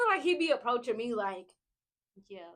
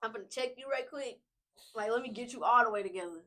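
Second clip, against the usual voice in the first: gentle correction; 4 dB quieter than usual. Acted. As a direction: correct them kindly, without raising the voice. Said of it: "It's always very gentle, though".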